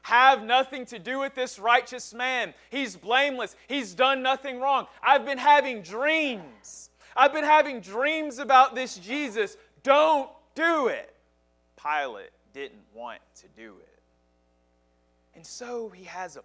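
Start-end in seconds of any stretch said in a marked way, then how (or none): 0.0-11.2 higher, insistent, urgent pleading; a worried wife begging her husband. Retold or imitated. Pilate's wife begging him to spare Jesus, higher and urgent. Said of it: "His wife was telling him again and again".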